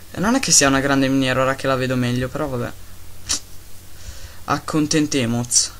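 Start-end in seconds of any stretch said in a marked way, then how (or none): 4.5-5.7 slow made-up Spanish "Accontentemos"; mock Spanish. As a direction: play a fake Spanish word. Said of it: "sto parlando una lingua che non esiste".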